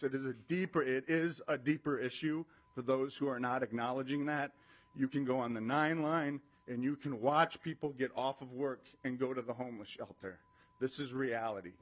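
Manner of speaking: nervous shaky voice, pressing on; trembling but firm. Real, not acted. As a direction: voice shaking with nerves but steady. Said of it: "my voice is shaking".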